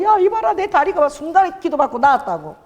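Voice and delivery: high, excited Busan woman imitation; excited Busan dialect. Healed owner telling co-workers about her leg, imitated excitedly in Busan dialect. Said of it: "부산 사투리로".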